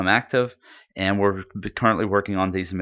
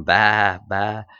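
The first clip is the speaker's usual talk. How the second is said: goat bleat; 3 dB louder than usual. Retold or imitated. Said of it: "the goat's going".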